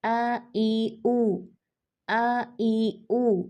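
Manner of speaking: आ ई ऊ drawn out very slowly with lips a finger apart; slow vowel practice; vowel drill. Shown as a demonstration. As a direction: stretch आ ई ऊ slowly, mouth barely open. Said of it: "one finger का फासला".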